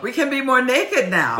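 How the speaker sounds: high mock-Russian coaxing; Julia, Russian accent. Co-host playing Julia coaxing Brandon, Russian accent. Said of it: "so Russian about this".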